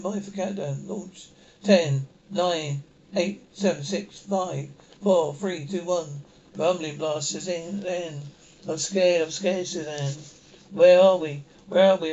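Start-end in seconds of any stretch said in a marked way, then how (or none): 1.6-6.1 countdown called out loud. Acted. Officer calling the launch countdown to the cabin, loudly. 8.7-12.1 loud frightened cries; panic, calling out in fear; scared cry. Acted. Frightened passenger crying out to Suzanne after launch.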